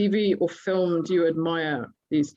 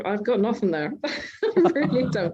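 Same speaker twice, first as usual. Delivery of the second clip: laughing; 3 semitones higher than usual. Real, not acted. Host admits having no answer.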